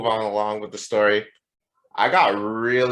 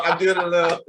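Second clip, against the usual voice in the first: usual speaking voice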